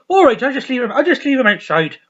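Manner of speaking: loud, high, chirpy voice; breezy milkman's answer; Dougal's cheery reply. Retold or imitated. Dougal leaving the milk outside, chirpy and loud. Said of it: "He goes".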